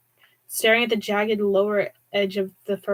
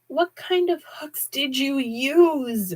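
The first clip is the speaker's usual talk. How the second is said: lightly voiced Hudson; 6 semitones higher, much slower than usual. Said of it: "Hudson asked the absent Duane".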